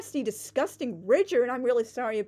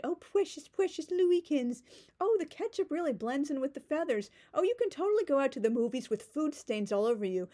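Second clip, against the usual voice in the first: mock Lou; 3 semitones higher than usual. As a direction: coo it like a sappy husband. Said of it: "And Lou said".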